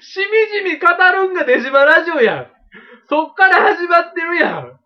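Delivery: loud, high indignant protest; indignant shout. Real, not acted. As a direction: yell it in playful outrage. Protests being cut off.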